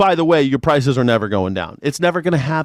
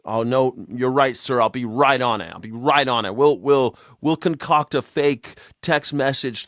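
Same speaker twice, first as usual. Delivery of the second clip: mock groveling director; 2 semitones lower than usual. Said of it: "imagine that call, Kashyap Patel".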